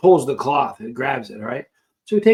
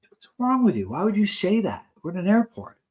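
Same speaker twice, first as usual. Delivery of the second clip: retold incredulous protest; 5 semitones higher than usual. Retold shocked protest at guard.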